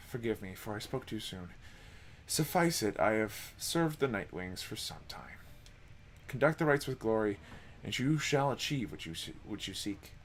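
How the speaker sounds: hushed, measured storyteller; a hint of a courteous old-world minstrel; softly spoken minstrel. Reads the minstrel's lines.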